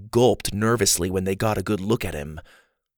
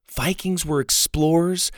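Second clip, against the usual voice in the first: put-on higher-pitched girl reading out a guidebook; reading aloud; 6 semitones higher than usual. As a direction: read out facts in a higher child's voice. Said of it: "she read".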